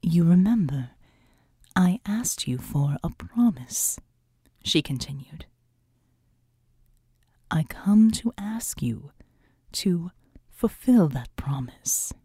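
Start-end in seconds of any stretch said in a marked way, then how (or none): 0.0-4.0 solemn angel voice. Acted. The seraphim speaks. 7.5-12.1 slow angelic whisper. Acted. The seraphim speaks.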